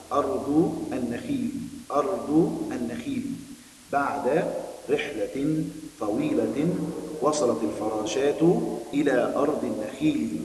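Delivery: slow, clear read-aloud for pupils; story reading. Acted. Teacher reading the lesson story to her pupils, slow and clear. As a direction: read the story slowly to the class, lingering on words.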